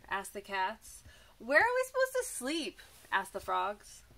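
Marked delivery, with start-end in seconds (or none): 1.4-2.8 much higher, squeaky frog voice. Acted. Frogs asking the rooster where to sleep, high and squeaky. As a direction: squeak it up like a small worried frog.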